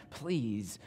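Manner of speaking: understated emotional appeal; earnest appeal. Acted. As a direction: plead quietly, spacing out the words. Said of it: "makes this emotional appeal to them".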